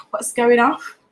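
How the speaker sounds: drawn-out Nottingham greeting after a laugh; slow, high Nottingham catchphrase; Nottingham phrase. Shown as a demonstration. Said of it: "That's how we talk".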